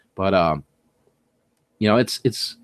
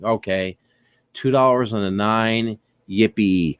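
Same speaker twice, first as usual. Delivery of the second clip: sarcastic; 2 semitones lower, slower than usual. Retold or imitated. Finding a cheap bar of soap.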